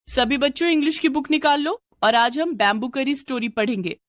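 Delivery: teacher announcing the lesson. Acted. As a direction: call the class to order like a teacher. Teacher addresses the class.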